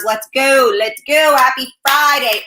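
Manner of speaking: punchy, energetic rallying call; rally the viewers to get moving; hyped-up cheer. Real, not acted. Host urging viewers to share the video, hyped-up.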